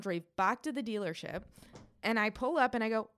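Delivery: normal talking voice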